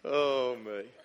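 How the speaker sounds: laughing at his own joke; real laugh. Real, not acted. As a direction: crack up for real.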